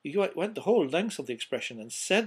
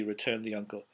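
ordinary delivery

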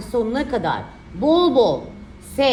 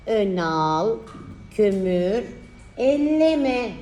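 dictating; much slower than usual. Shown as a demonstration. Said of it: "dikte çalışması".

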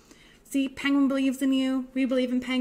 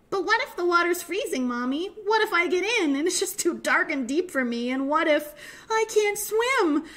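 put-on worried child's rush of what-ifs, higher pitch; anxious little penguin; 4 semitones higher than usual. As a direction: fret aloud, fears piling up. Anxious little penguin voices fears.

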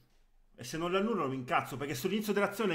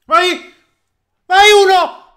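high, loud urging yell; excited shout; 21 dB louder than usual. Real, not acted. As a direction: roar the player on. Urging attack on live match.

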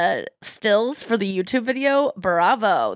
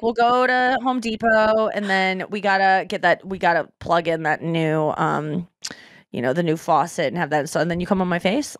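offhand, sinking lower as it goes; casual; 4 semitones lower than usual. Acted. Woman listing errands to her partner, casually slipping in a dirty line. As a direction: run through errands and slip it in unremarked. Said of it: "casually, like".

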